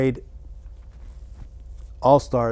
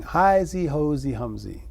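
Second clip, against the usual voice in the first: put-on baby talk; 4 semitones higher, slower than usual. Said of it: "sort of like baby talk".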